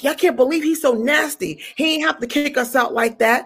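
mildly worked-up grumbling, acted out; indignant. Ranting to a bystander about being kicked out, indignant. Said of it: "I'm mad".

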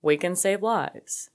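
lightly mocked deep, nasally voice, slowed right down; Elizabeth Holmes impression. Vlogger imitating the founder's catchphrase, slow deep nasally voice. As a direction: draw it out in a put-on nasally voice. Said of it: "her deep nasally voice".

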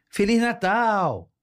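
slow, high, drawn-out Feliz Natal; a child calling to a dad who won't answer; pleading child voice. Pretend. Child begging frozen dad.

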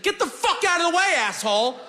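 hammed-up road rage; angry driver yell.

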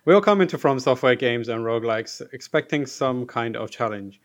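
bright question read-out; livelier reading. Shown as a demonstration. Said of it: "a very boring start to the reading".

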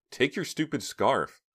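slow contemptuous sneer. A narrator's reading. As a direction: spit it out with scorn.

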